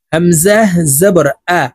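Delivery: "আ" said short and quick after "হামজাহ জবর"; quick short vowel. Shown as a demonstration. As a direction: spell it out and cut "আ" short. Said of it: "তাড়াতাড়ি করে উচ্চারণ করতে হবে". ("আ" তাড়াতাড়ি, না টেনে)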